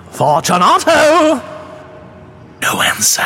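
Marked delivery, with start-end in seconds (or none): 0.1-1.4 much higher, louder call into the niche; calling aloud. A narrator's reading. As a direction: call his name into the dark. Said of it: "I called aloud".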